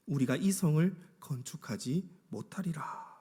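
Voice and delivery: hushed, whispery voice of defeat; disheartened. Acted. Preacher voices fearful builders losing heart, hushed and discouraged. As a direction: let the breath go, acting out giving up. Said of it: "낙심하고 있는지를 잘 표현해주고 있는 말씀이죠".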